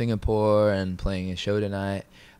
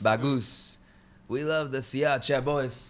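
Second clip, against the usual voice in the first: announcing to camera; 6 semitones higher, slower than usual. Shown as a demonstration. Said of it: "try that line".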